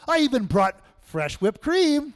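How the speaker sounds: grandma's voice. Retold or imitated. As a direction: insist sweetly like a doting grandmother. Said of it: "She goes".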